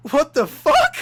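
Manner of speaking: loud, laughing outburst; laughing disbelief. Real, not acted. Telling friends about the coincidence, loud laughing disbelief. Reacting to shared school coincidence.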